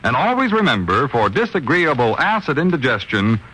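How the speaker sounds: smooth persuasive commercial voice; radio ad read. Acted. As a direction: sell the product calmly. Reads the sponsor ad.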